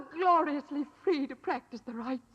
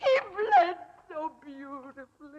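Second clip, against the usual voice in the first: crooning, half-sobbing relish; madly delighted; 3 semitones higher, 3 dB louder, slower than usual. Acted. Madwoman recalling the blood, tearful glee. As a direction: savor it like a lunatic. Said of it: "she's mad as a hatter".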